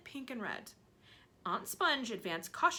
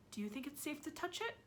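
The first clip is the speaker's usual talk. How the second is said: quiet; 7 semitones higher, 8 dB quieter than usual. Acted. Aunt cautious near peach.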